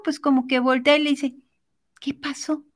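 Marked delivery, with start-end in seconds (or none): 2.0-2.6 softer, absent-minded prince voice; clueless prince. Acted. Prince turning round to the princess, absent-minded. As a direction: answer quietly, as if distracted. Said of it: "todo despistado".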